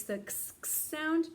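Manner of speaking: teacher sounding out x as ks; x sound demo. Shown as a demonstration. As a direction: model the ks sound of x for the class. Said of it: "the letter X makes the".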